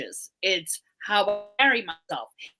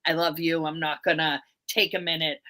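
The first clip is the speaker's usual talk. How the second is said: tender prayer; 5 semitones lower than usual. Retold or imitated. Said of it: "communicate with the divine".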